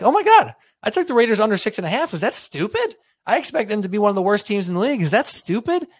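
high, fast mock panic; a bettor suddenly doubting his pick. Panics over his Raiders bet.

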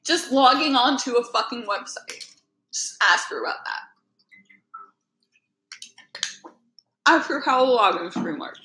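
talking through a mouthful of popcorn; words around a bite of popcorn; mouth full. Real, not acted. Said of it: "Sorry, I'm eating so much popcorn right now".

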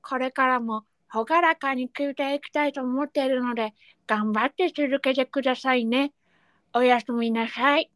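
lightly voiced toothless letter writer; a hint of a gap-toothed speaker; toothless reader. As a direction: read it as if a few teeth are missing. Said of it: "歯がないイメージで読んでみました".

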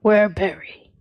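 simple slow bear voice; dumb bear voice. Acted.

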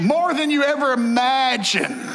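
slow shouted climax; preaching shout. Real, not acted. Preacher to congregation, slow shouted climax. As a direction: drive the point home to the crowd.

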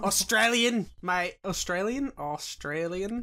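rehearsing an Australian accent, rising endings; searching for the Australian accent; Australian accent attempt. Shown as a demonstration. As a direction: test out your Australian, word by word. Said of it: "I forgot how to do the Australian accent".

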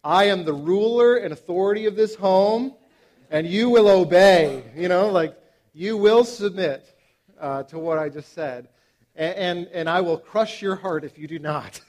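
mock-thunder like a self-made ruler; God mode. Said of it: "go into, like, God mode".

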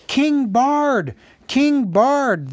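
high, loud chanted cheer; acted crowd shouting in acclaim; crowd acclamation shout. A narrator's reading. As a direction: hail the new king at the top of your voice. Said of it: "they shouted".

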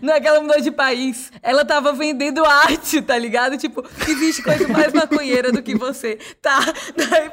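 excited, laughing through the words. Real, not acted. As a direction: tell it while cracking up.

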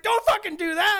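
high, loud mock yell from the boys; teammates shouting warning. Teammates on the bench warning him, high mock yell.

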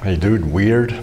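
surfer dude American accent; Hey dude weird, laid-back American. Shown as a demonstration. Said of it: "My best American accent".

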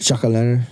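"Jack-o'-lantern" run together as "chackalanner"; accented repeat. Shown as a demonstration. Host echoing the teasing co-host, "Jack-o'-lantern" slurred in own accent. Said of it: "My accent came out there".

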